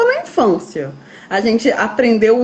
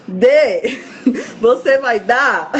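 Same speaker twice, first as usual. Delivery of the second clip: laughing through a quote; much slower than usual. Retold or imitated. Joking quote of Jesus, laughing.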